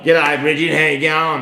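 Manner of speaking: lightly put-on broad Australian accent; Australian bogan voice. Co-host greets listener Bridget for laughs, Australian bogan voice. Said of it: "That's his Australian bargain voice".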